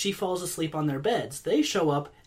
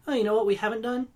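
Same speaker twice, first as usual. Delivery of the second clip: fast, higher eager pitch; excited executive voice; 4 semitones higher, faster than usual. Retold or imitated. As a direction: blurt it out like a giddy executive. Disney execs voiced.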